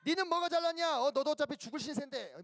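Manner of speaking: high-pitched squabbling comeback; mock indignant retort; acted quarrelling retort. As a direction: snap back as if picking a fight. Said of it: "똑같이 막 싸웠어요?".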